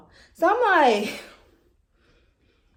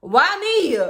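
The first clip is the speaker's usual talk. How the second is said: mock wail; 11 semitones higher, 7 dB louder than usual. Despairing over positive tests.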